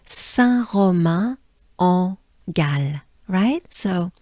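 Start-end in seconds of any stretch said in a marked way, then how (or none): 0.0-3.0 Saint-Romain-en-Galles said slowly in French, nasal vowels; slow French place name. Shown as a demonstration. Teacher modelling Saint-Romain-en-Galles for the class, slow. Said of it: "let's try it together as a whole".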